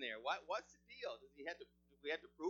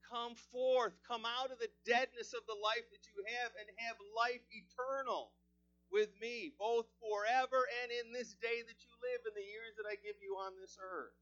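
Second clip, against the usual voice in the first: loud, higher preaching plea; preaching call; 6 semitones higher, 7 dB louder than usual. Acted. Jesus calls the unbeliever to life, loud preaching. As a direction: urge the unbeliever to come out. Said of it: "He says it to the unbeliever".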